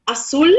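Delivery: azul said in Spanish as ah-SOOL; Spanish word. Shown as a demonstration. Teacher models azul for a student, ah-SOOL. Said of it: "for example".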